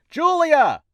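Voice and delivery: high yell to another room; calling out loudly. Acted. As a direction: holler for her across the house.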